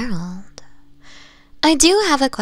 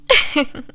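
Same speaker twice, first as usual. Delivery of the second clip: a short bright giggle; 6 semitones higher, 3 dB louder than usual. Acted. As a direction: let a little amused laugh escape. Amused by being asked a question.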